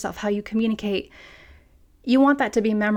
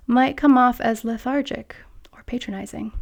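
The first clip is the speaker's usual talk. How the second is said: patronizing voice; 3 semitones higher than usual. Shown as a demonstration. Demonstrates patronizing slow pace.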